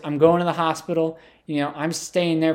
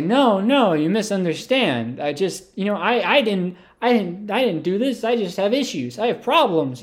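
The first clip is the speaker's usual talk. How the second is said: raised pitch, stumbling protest; mock pleading; 4 semitones higher than usual. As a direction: plead your case to an angry gang, half-acted. Pleading with angry gang in story.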